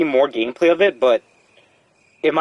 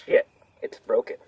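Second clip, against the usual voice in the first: breathy whisper repeating the line; whispered echo; 4 semitones lower, 6 dB quieter than usual. Real, not acted. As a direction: whisper the game's line back. Echoing the game character's line.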